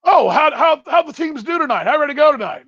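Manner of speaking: put-on high, eager voice of an old ballplayer; Lou Piniella. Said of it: "It's Lou Piniella".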